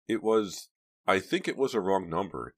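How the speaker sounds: nervous, halting; stammering. A narrator's reading. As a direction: stumble over the words nervously. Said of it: "Dina stammered".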